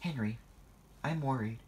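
worried rising cry. Acted. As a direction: cry out in worry. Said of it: "cried Percy".

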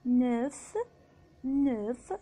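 "نوف" with a long rounded eu; French "نوف", neuf, vowel held; lengthened EU. Shown as a demonstration. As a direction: stretch the vowel in "نوف", then f. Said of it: "مجرد إنه بيطوله".

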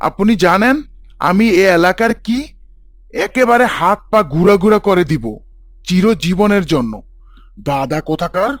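angry threat. Acted. Angry father threatens the teacher.

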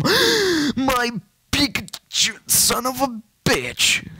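lightly high put-on voice, slowed; mock squeaky curse. Gamer cursing at his Pikachu in a squeaky put-on voice.

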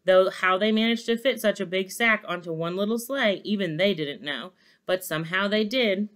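measured, animated read-aloud; story narration. A narrator's reading. Narrator tells how elves loaded the sleigh, story narration.

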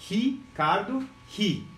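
"Ricardo" slowly, first syllable isolated as "hi"; Portuguese R as H. Shown as a demonstration. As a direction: stretch "Ricardo" as "hi... cardo", then "hi" alone. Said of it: "Aqui, ó".

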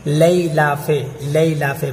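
"لیلاف" with a lay- diphthong; "لیلاف" opened with lay instead of li-ee; common mispronunciation. Shown as a demonstration. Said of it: "بہت سارے اس کو لیلاف پڑھتے ہیں".

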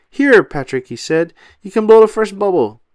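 loud, high cartoon sponge voice; loud high SpongeBob voice; SpongeBob offering. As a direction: hand it over with big-hearted gusto. SpongeBob hands Patrick the wand.

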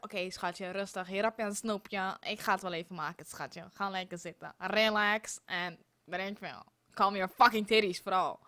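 mock-calm a stressed girlfriend down; soothing partner. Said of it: "iemand hier rondlopen die zegt".

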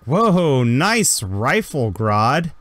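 loud, slow, wowed drawl; be blown away by the rifle; impressed girl. Acted. Sarah gushing to Grodd over his rifle, slow wowed drawl. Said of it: "and she's like".

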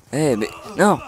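ordinary talk, nothing marked

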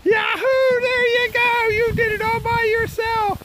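high excited praise; excited cheering. Real, not acted. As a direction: cheer him on, thrilled. Cheering kid sliding alone.

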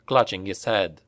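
usual speaking voice

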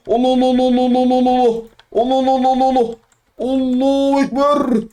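high chanted battle cry, slowing at the end. Real, not acted. Gamer charging the enemy, high chanted battle cry.

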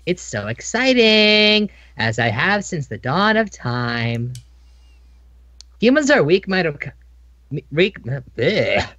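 villain monologue. Acted. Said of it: "Are you gonna monologue all day?".

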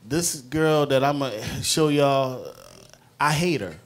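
loud, high, worked up about the character; fired-up rant, loud and high; heated outburst. Real, not acted. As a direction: blurt out the hate for her. Excited playwright venting about character.

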